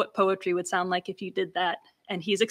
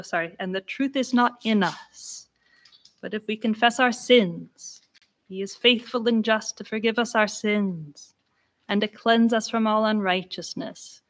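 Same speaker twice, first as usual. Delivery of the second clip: a hint of a church reading tone; church verse tone. Shown as a demonstration. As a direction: read it the way verses sound in church. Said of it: "this Bible verse as it is often spoken in church".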